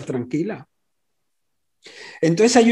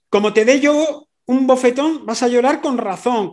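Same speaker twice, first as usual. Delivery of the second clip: mock threatening mother; 5 semitones higher than usual. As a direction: play the exasperated mom warning her kid. Mother threatening a crying child.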